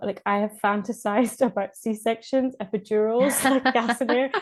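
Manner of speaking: hammed-up begging for every drug going; mock desperate plea. Begging for every pain relief.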